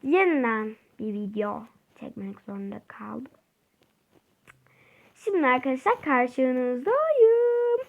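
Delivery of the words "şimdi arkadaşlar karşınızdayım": slow, mock-tearful greeting; mock dramatic intro. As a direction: stretch the welcome out like a tragic entrance. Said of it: "O nasıl bir giriş oldu". (yavaş, sahte ağlamaklı bir giriş)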